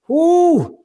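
high, loud impressed ooh. Real, not acted. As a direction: wow them with an ooh. Impressed by his hand speed.

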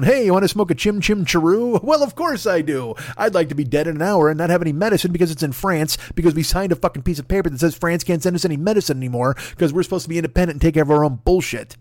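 high, hammed-up posh English voice; mock English accent. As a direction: play a cheery Brit mocking himself. Mocking English smokers in accent.

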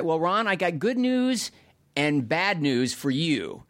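a lightly voiced Mitch, drawn out; imitating Mitch. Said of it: "Mitch called and it said".

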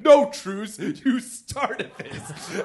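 loud mock yell at the mom; a retold yell, loud then trailing off; mock angry yell. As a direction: shout it like a drunk fan picking a fight. Friend yelling at the mom.

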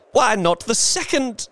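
high, pressing question; feverish. A narrator's reading. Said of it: "said the old woman feverishly".

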